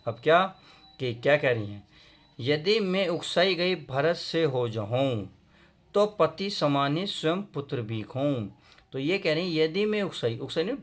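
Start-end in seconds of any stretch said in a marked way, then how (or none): 2.4-8.5 measured, drawn-out verse; poem recitation. Acted. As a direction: read the couplet out in slow rhythm. Reads next verse aloud. (लय में कविता पाठ)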